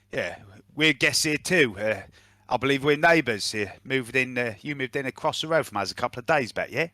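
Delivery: lightly voiced approving mercenary; mercenary character. Mercenary introduces himself after gun trick, lightly voiced and approving. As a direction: give the hired gun a matey touch. Game master voices Trek.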